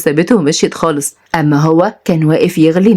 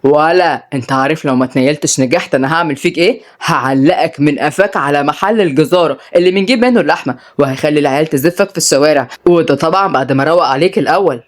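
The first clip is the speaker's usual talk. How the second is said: lower, mild mock threat; understated sharp warning to brother; big brother threatens his little brother, mildly sharp and lower; 3 semitones lower than usual. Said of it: "وقال بحدة".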